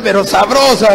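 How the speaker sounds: punchline breaking into laughter; amused, laugh-filled delivery. Real, not acted. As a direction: crack up as you finish the joke.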